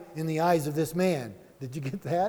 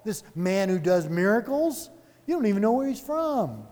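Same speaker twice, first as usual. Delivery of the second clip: incredulous mockery; 3 semitones higher than usual. Man mocking the Pharisees.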